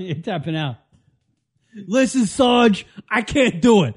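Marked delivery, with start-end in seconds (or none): 1.9-3.9 whiny recruit. Pretend. Mock soldier begging sergeant.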